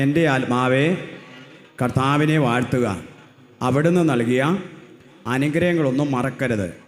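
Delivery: loud, slow psalm recited to the crowd; loud recitation. Shown as a demonstration. Preacher leading the psalm, loud. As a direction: proclaim the psalm loudly. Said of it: "ഉറക്കെ പറഞ്ഞേ".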